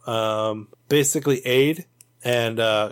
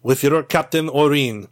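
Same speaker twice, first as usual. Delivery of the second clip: mild officious tone. Acted. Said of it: "and Jinko says".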